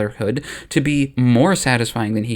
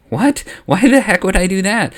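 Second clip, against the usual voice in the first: higher, louder disbelieving outburst; incredulous; 6 semitones higher, 4 dB louder than usual. Acted. Anakin refusing Palpatine, incredulous. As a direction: scoff at the very idea.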